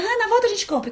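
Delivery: high, careless brush-off while walking on; offhand brush-off. Retold or imitated. Adult to a friend passing by: high offhand brush-off. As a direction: toss it over the shoulder, not stopping. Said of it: "O outro olha pra ele e fala".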